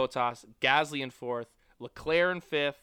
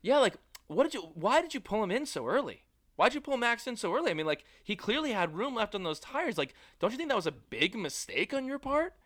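imitating Nico; 6 semitones higher than usual. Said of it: "Nico's like".

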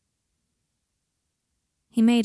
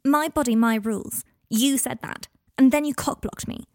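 higher, louder protest in a quarrel; angry shouting; 4 semitones higher, 4 dB louder than usual. Acted. Teenage girl protesting to her guardian, angry. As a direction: throw it as a raised-voice accusation. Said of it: "Are you done shouting at me".

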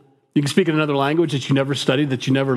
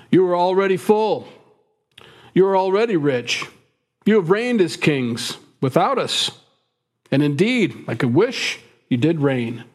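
reading Paul's lines higher, with biting irony; sarcastic; 3 semitones higher than usual. Retold or imitated. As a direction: let the sarcasm drip, voice raised. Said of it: "This is where he gets very sarcastic".

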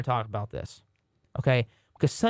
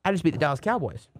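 imitating Josh Dobbs; 4 semitones higher than usual. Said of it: "He was like".

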